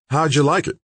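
high, bright, hopeful question; fishing for praise; eager. A narrator's reading. Scientist asking the Russian about the interview, eagerly. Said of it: "he asked eagerly".

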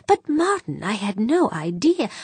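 high-pitched, earnest protest; shocked protest. A narrator's reading. Chair denies scheming to her accusing rival, shocked. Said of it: "O'Banion was genuinely shocked".

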